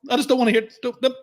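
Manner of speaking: fed up. Real, not acted. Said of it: "repeats rant".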